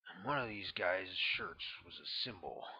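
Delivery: ex-Green Beret spinning a conspiratorial tale; lightly voiced, secretive storyteller; Tonawanda's voice. Tonawanda continues his tale.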